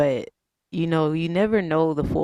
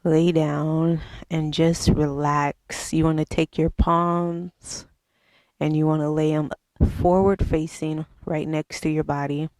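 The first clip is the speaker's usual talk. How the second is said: slow, spaced-out meditation instruction; guided meditation; slower than usual. Acted. Yoga host guiding viewers to relax the mind, slow meditation voice. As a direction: ease them into relaxing, leaving long pauses.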